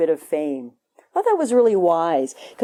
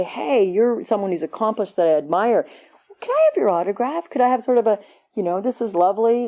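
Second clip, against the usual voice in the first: polite autograph seeker; 3 semitones higher than usual. Retold or imitated. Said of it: "We used to say".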